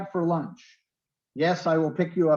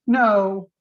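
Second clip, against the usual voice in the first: a louder, higher mock refusal; mock firm no; 6 semitones higher, 7 dB louder than usual. Teacher acting the student who turns the offer down. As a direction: toss out a firm no. Student's reply acted in example.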